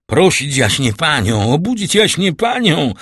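loud command climbing high; shouted order. A narrator's reading. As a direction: cry out orders to the servants, rising. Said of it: "krzyknął Villefort". (głośny, coraz wyższy okrzyk rozkazu)

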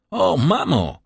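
loud, high call to his mother. Acted. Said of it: "zawołał".

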